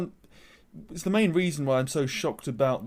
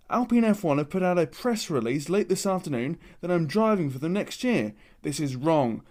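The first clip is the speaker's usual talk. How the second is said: put-on Aussie accent. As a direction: read the tweet in a put-on Aussie accent, a little sulky. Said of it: "That was my Aussie accent there".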